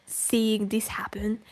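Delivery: intense whispered emphasis. Real, not acted. Streamer whispering the bare minimum. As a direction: press it out in a whisper. Rant conclusion.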